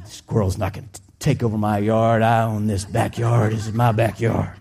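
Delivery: low, stubborn mock indignation; territorial grumble. Acts out claiming his yard.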